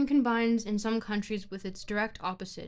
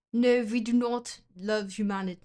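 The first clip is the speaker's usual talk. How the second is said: loud, badly faked German accent; attempted German accent; 6 dB louder than usual. A streamer testing a German accent for chat, badly faked. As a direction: try a clumsy German accent on Nietzsche. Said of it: "I can't do a German accent, can I?".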